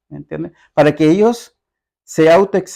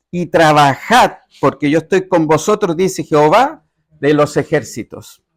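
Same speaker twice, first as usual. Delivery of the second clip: solemn, measured Bible reading from the pulpit; scripture reading. Acted. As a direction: proclaim the verse with weight. Pastor reads Haggai aloud.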